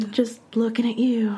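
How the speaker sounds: teasing whisper; giggly late night call. Pretend. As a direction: whisper it sweetly down the phone.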